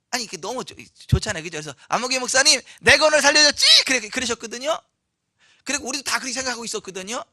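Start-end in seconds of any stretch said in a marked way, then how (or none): 1.9-3.8 louder, higher playful tease; teasing with a smile. Retold or imitated. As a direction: tease him, smiling, claiming credit. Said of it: "웃으시면서 ... 이렇게 말씀하셨어요". (웃으며 장난스럽게 생색내는 목소리)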